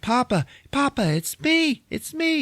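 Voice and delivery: high, hammed-up daughter's cry; pleading daughter. Daughter begging her dying father, high and pleading. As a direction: squeak it like a desperate daughter.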